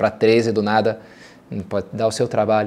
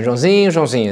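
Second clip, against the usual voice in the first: a warning "Joãozinho", falling and a bit louder; testing my patience; 2 semitones higher, 4 dB louder than usual. Shown as a demonstration. Parent warning a child who's pushing it, falling warning tone. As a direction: let your patience wear thin on the name. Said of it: "Joãozinho, até muda, né, prime-, a entonação".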